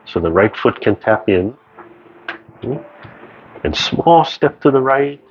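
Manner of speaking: calm, measured movement instructions; serene tai chi cues. Acted. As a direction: guide the class gently through each move. Guides tai chi moves.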